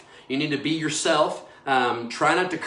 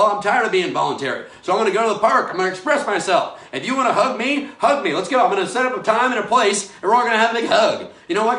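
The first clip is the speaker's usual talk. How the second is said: louder and higher, venting in a rush; worked-up rant; 5 semitones higher, 5 dB louder than usual. Real, not acted. Host venting about social distancing to his live viewers, worked-up loud rant. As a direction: let the frustration boil over, pushing harder. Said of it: "so I can get like that".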